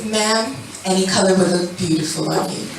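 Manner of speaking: low, smooth customer-service voice; polite flattery. Retold or imitated. Salon worker flattering a customer choosing a color, polite. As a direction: soothe her with measured, insincere praise. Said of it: "what I would say is".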